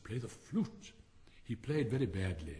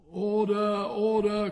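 loud, high parliamentary call; shouted order order; 10 semitones higher, 10 dB louder, much slower than usual. A narrator's reading. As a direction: bang the gavel with your voice. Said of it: "cried out a cracker".

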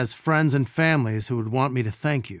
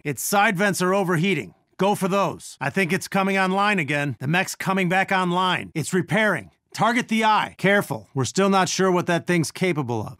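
higher-pitched combat call-outs; urgent battle radio direction, pitched up; urgent warning; 4 semitones higher than usual. Acted. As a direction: warn the team mid-fight. Urgent warnings during boss fight.

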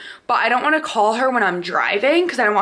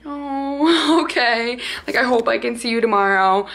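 imitating disappointed mom; 3 semitones higher than usual.

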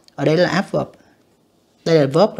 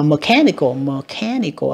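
mechanical with CHA lifted; second-syllable stress; slower than usual. Shown as a demonstration. Teacher marking word stress, mechanical stressed on cha. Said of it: "âm hai các bạn".

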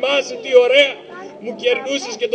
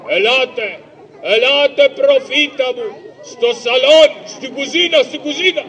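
eager hurry; 3 semitones higher than usual. Acted. Rushing to the kitchen.

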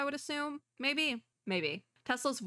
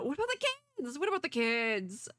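very high, worried wail; high-pitched dismayed plea; distressed squeal; 5 semitones higher than usual. Real, not acted. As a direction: cry out high in alarm for them. Distressed for the children in story.

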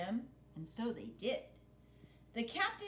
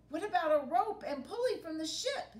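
pirate Wavy voice; 8 semitones higher, 6 dB louder, faster than usual. Acted.

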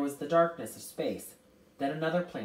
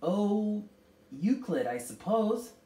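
high, louder impatient answer; irritable; 7 semitones higher, 5 dB louder, slower than usual. A narrator's reading. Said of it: "her voice grated irritably".

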